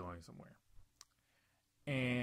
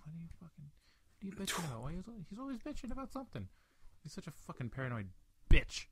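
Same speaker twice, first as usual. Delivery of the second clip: rising, incredulous mockery, louder at the end; mock exasperated rant; 6 semitones higher, 3 dB louder, faster than usual. Narrator mocks paranoid Sean, rising exasperated rant. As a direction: scoff at him like he's ridiculous.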